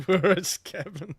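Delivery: slow, puzzled mock question; puzzled echo. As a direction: draw it out as if searching around. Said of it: "we all look around".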